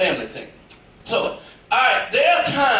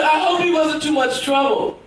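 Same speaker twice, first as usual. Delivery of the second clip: sweet mother voice; 5 semitones higher than usual. Retold or imitated. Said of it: "She said".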